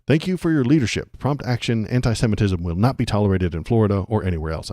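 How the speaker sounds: a hint of a Frasier-style Mid-Atlantic accent. Shown as a demonstration. Streamer reading the Attorney General's statement in a light Mid-Atlantic accent. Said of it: "a Frasier accent".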